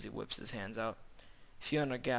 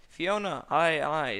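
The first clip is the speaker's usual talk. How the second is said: loud, high, drawn-out exclamation; exclaimed protest; 5 semitones higher, 9 dB louder, slower than usual. A narrator's reading. Shrek exclaiming to Fiona, loud and theatrical. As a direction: cry out the name in mock dismay.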